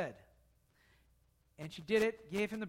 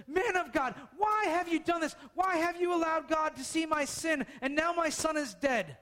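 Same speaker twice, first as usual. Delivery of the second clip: mildly raised, pleading cry; a hint of a distraught mother; upset widow; 6 semitones higher than usual. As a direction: voice the widow's frantic grief, understated. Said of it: "the widow freaks out".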